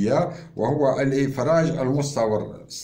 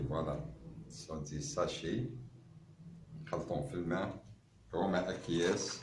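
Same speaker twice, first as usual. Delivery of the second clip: far off; 5 semitones lower, 9 dB quieter than usual. Real, not acted. Showing samples away from mic.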